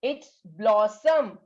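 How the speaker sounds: "blossom" stretched very slowly, falling tune; slow model reading. Shown as a demonstration. Teacher modelling the word "It's blossom" again, very slow. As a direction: sound out "It's blossom" slowly for children to repeat. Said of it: "Try to read with me".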